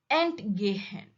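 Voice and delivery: "Entgehen" with a short ENT, then weight on GEHEN; "Entgehen" stressed on the verb part. Shown as a demonstration. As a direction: set "Ent" down briefly and lean on "gehen". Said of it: "stress is on the verb gehen".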